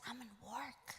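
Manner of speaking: very soft, low-pitched aside; acted furtive phone voice; hushed excuse. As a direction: murmur it as if the boss might hear. Acts out his hushed excuse.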